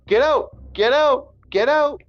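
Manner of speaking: high, repeated mock yell; retold eviction yell. Man who snapped throwing her shit out, retold eviction yell.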